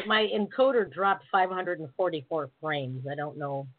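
choppy breaking-up audio; glitchy dropped-frame stream; bad connection. Real, not acted. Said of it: "you're breaking up really bad".

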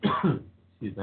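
husky after a coughing fit; clearing a dry, tickly throat. Real, not acted. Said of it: "I have a little dry cough tonight".

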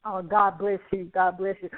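ordinary delivery

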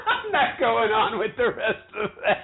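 high, helpless laughing refusal. Real, not acted. Woman quitting her Shakespeare attempt, laughing as she talks. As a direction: give up through laughter.

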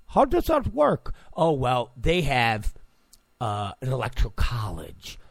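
put-on light Indian accent for the foreigner; a hint of an Indian accent, curious. Asking about US elections, lightly Indian-accented. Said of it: "I know that's my Indian voice".

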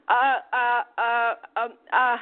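mock timid, hesitant stammering; meek, timid woman. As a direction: imitate a meek caller faltering on each uh. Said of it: "very meek, timid woman".

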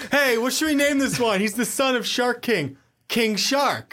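high, goofy mocking voice. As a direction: sneer like a lazy writer. Mocking comic writers naming character.

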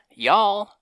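high, loud country "y'all"; a country-pop singer persona. Pretend. Voicing the singer persona in the skit, high and loud. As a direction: pop it up like a southern sweetheart. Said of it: a singer persona "says".

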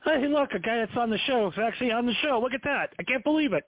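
high excited put-on surprise; mock amazement. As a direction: gush like an amazed host. Mock amazed host exclamation.

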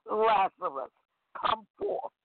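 calling out to the dead man, pitch leaping up on the second word; a lightly acted cry into the tomb, not truly loud; mild call. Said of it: "he cried with a loud voice".

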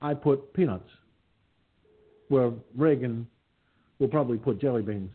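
lightly voiced Jimmy Carter, folksy and easygoing; mild, good-natured Carter send-up; Jimmy Carter impression. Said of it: "Oh, and I can do Carter, too".

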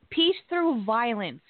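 each word slowed and set apart; slow mocking quote of the slogan; slow quoted slogan. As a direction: spell out the slogan slowly, with contempt. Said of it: "is what someone described Antifa".

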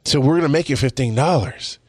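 a hint of eager corporate salesmanship; corporate spokesman. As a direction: mimic an eager company line. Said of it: "corporate Walmart is going".

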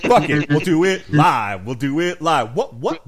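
mock on-air meltdown, shouted; furious host outburst. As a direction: blow up like a TV host losing it on air. Fox News host meltdown parody.

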